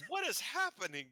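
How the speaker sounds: high, stunned and reeling; dazed. A narrator's reading. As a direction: say it dizzy and lost. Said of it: "she staggers over to the side and says".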